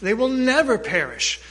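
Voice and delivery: preacher answering his own question about the sheep; stress on never. Shown as a demonstration. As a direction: lean into never with lifted pitch. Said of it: "what will never happen to them".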